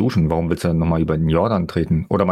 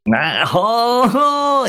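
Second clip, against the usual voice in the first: mock jolly ho ho; much slower than usual.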